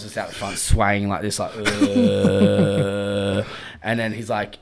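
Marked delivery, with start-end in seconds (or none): 1.6-3.5 woozy groan. Retold or imitated. Imitates himself swaying outside.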